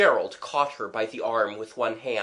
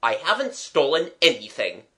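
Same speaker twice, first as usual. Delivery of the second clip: mildly indignant denial, louder; indignant protest; 3 semitones higher, 5 dB louder than usual. Acted. Accused man denying he stole anything, indignant. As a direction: protest it firmly.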